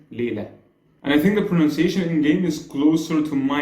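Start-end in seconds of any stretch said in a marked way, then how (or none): 0.1-0.5 Layla in Egyptian Arabic, "le-la" with no final h; Egyptian Arabic accent. Shown as a demonstration. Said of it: "And in my accent".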